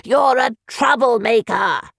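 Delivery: slow shouted accusation; shouting pompous man; angry accusation. Acted. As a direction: shout him down, slowly. Dodd accuses Evian.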